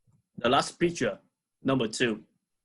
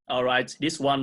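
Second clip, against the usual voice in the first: ordinary delivery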